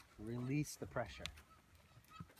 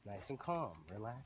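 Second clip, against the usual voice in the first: lower, softer soothing voice; calming; 4 semitones lower, 6 dB quieter than usual. Shown as a demonstration. Trainer slowing his horse down, calming. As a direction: settle the horse gently. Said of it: "And slow him down".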